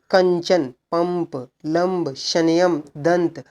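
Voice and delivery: कंचन, पंप, लंब, शनयम, दंत with humming nasal consonants; nasal buzz. Shown as a demonstration. Teacher reading anusvara examples, कंचन to दंत with nasal hum. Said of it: "नाक से भनभनाहट आएगी".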